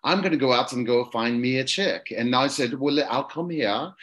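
British duke explaining himself; put-on London accent, slowing grandly at the end. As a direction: play a snobbish British aristocrat. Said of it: "I'll do the London accent".

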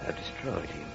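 dark reverie to himself; a killer muses at dawn; brooding villain monologue. Acted.

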